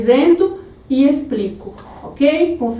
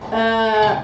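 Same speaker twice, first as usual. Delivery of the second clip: usual speaking voice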